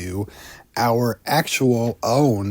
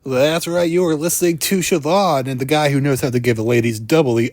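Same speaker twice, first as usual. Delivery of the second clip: hammed-up morning radio DJ voice; cheesy radio jock patter; radio DJ bit. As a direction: slick drive-time host selling the next segment. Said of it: "that whole radio D J, you know, bit".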